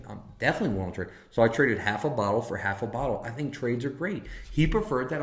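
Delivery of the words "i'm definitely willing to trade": rattled off fast; quick excited agreement; rushed eager reply. Retold or imitated. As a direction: blurt it out quickly, eager to trade. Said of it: "And I was like".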